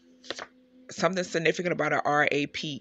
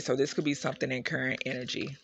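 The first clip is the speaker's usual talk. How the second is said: sniffling. Real, not acted. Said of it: "excuse the sniffling".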